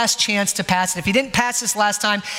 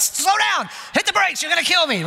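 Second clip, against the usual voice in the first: mock-yell at a new driver from the passenger seat; imitated panicked yelling; 9 semitones higher than usual. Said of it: "I yell at him all the time".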